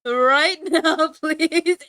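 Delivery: grossed out, pleading loudly; loud laughing disgust; loud disgusted plea. Real, not acted. Grossed out by pickle cafe.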